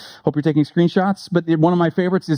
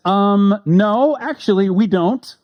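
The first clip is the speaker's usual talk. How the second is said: doubting Thomas; 5 semitones higher, slower than usual. Acted. Thomas telling Jesus they don't know the way, sheepish and raised. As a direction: play Thomas correcting Jesus awkwardly.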